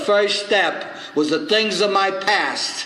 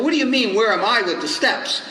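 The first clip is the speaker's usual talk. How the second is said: indignant; 3 semitones higher than usual. Retold or imitated. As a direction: play up the affronted newcomer. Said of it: "I got indignant".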